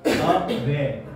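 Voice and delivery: अवेयर split as अ-वेयर; two separate syllables. Shown as a demonstration. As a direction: say अवेयर in two distinct parts. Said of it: "दो parts में इसको बोला जाता है". (अवेयर को दो हिस्सों में तोड़कर)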